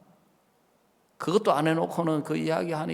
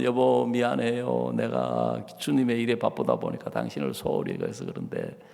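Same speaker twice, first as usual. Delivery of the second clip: meek apology; 3 semitones lower than usual. Pretend. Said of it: "그러는 게 아니고".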